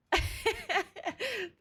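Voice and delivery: soft high laughter. Real, not acted. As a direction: laugh at the funny comment. Laughing at comment.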